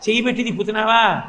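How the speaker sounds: a touch of bewildered questioning; mild astonishment; taken aback. Acted. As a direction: ask as a dumbfounded milkmaid, lightly acted. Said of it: "ఆవిడ తెల్లబోయి".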